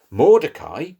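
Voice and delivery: ordinary delivery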